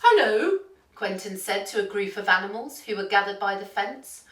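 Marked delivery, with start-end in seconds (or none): 0.0-0.6 higher, louder character greeting; friendly duck character. A narrator's reading. Duck greeting a group of farm animals, raised character voice. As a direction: call out a hello in a raised voice.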